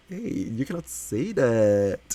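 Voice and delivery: slow, drawn-out playful telling-off; mock scolding. Streamer reacting to the dick site joke, mock scolding. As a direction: scold playfully, stretching the words.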